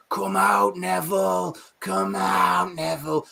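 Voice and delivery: lightly voiced vampires calling Come out, Neville in a sing-song; taunting vampire call. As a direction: coax him out like a vampire at the door, only half played. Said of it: "they stand outside his door every night going".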